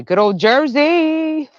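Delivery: loud, high, stretched-out call; playful hometown cheer. Real, not acted. Gardener hailing home state to viewers, loud drawn-out cheer. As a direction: draw it out, rising high on the last word.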